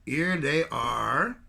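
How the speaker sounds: slow, drawn-out here they are in a light mock French accent. Trudeau discovers the police inside, in mock French accent. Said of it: "Sorry about the French accent".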